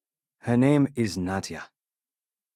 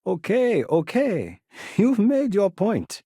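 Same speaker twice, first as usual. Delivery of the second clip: laughing; 8 semitones higher, slower than usual. Acted. Laughing concession in negotiation.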